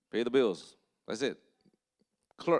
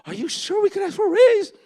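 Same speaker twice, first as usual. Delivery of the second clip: high, loud imitation of a little Chinese lady; imitating a small Chinese coworker, high and loud; timid Chinese lady; 9 dB louder than usual. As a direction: squeak it like a shy older lady who can't believe it. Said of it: "Little Chinese lady".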